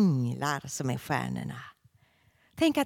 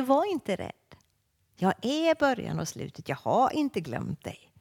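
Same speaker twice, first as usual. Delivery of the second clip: "Var inte rädd" lifted higher, stress on "inte"; a pitched-up promise, stressing "inte"; raised reassurance; 6 semitones higher than usual. Shown as a demonstration. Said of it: "Och han säger".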